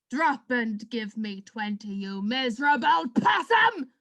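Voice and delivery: barked command, shouted end; drill sergeant. Acted. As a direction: order push-ups like a drill sergeant. Boss yells at Tarquin.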